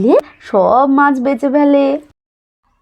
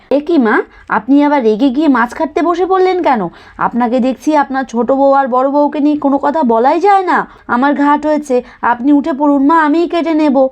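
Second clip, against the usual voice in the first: put-on lightly higher, conciliatory young wife; a touch of pleading to calm her down; placating daughter-in-law; 3 semitones higher than usual. Daughter-in-law begging mother-in-law to get up, mildly pleading.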